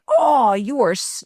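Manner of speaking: mother echoing her upset daughter, mildly mirrored; mirroring her. Retold or imitated. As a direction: reflect her mood back gently. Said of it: "mirroring her".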